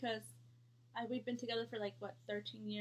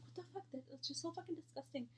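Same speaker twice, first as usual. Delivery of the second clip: disgusted; 5 semitones higher, 6 dB quieter than usual. Retold or imitated. Disgusted reaction, retold.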